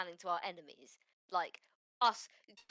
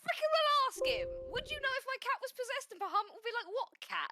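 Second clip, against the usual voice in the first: very high-pitched indignant challenge; worked-up, high-voiced in-character argument; exasperated retort. Acted quarrel, exasperated retort.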